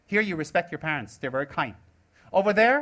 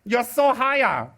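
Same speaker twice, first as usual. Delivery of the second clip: sarcastic mockery; 3 semitones higher, 3 dB louder, slower than usual. Mocking a self-styled guru judge.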